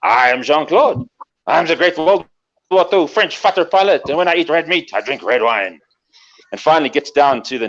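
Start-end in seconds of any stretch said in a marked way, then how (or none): 0.0-5.8 French fighter pilot. Acted. Pilot boasting to an admirer, lightly French and self-important. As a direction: announce yourself with a mild French accent. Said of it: "And he says".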